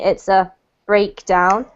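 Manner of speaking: breakdown slow, BREAK stressed, down light; noun stress on BREAK. Shown as a demonstration. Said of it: "this is a noun here".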